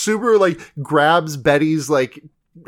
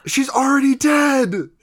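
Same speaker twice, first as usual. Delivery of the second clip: echoed exclamation; 9 semitones higher than usual. Real, not acted. Echoing co-host's exclamation.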